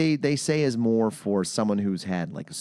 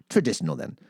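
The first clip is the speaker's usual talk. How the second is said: lightly imitated Thai accent, higher; bad Thai accent; 5 semitones higher, faster than usual. Masseuse picks the treatment, mock Thai accent. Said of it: "That is what she sounded like".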